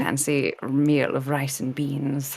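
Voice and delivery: mock-proper Hollywood English; Hollywood English accent. Shown as a demonstration. Showing off a proper English accent to the panel, Hollywood English. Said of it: "just, like, Hollywood English".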